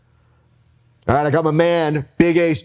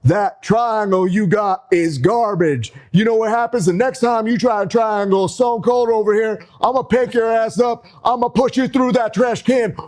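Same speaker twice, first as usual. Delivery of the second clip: higher, hyped-up ring promo; wrestling promo; 5 semitones higher than usual. Pretend. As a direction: hype the crowd like a wrestler on the mic. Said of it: "I'm gonna cut a promo on you".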